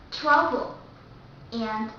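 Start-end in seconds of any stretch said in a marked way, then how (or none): 0.1-0.8 strong English TR at the start of "travel". Shown as a demonstration. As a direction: say "travel" with a firm TR. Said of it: "the T R in the word travel is much stronger".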